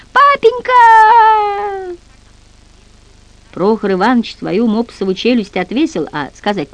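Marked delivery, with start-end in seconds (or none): 0.1-2.0 drawn-out high piercing shriek of "Папенька!"; terrified child's wail; shrieking scream. A narrator's reading. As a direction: scream for father at full force, slow and long. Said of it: "завизжал, что было мочи".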